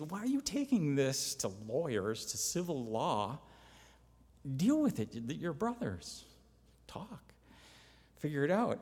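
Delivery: imitating an incredulous telling-off; retold scolding. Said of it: "slamming them about how they're bringing lawsuits".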